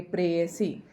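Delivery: प्रेयसी said with a clear ये; careful pronunciation. Shown as a demonstration. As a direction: pronounce प्रेयसी deliberately. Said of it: "इस तरीके से उच्चारित करेंगे".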